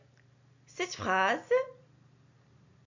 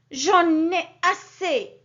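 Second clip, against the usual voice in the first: slow, louder, exasperated; fed-up exclamation; 3 semitones higher, 6 dB louder, slower than usual. Shown as a demonstration. Teacher acting out anger for the class, slow and louder. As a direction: let the frustration out. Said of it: "sert à exprimer une émotion".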